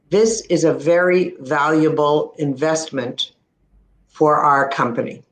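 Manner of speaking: monotone. Shown as a demonstration. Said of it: "if a person speaks monotone".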